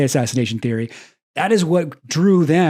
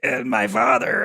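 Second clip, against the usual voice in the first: imitating a voice about to cry, higher and slow; mock teary voice; 8 semitones higher than usual. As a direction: pretend to choke up on the word father. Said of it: "on the verge of tears the whole time".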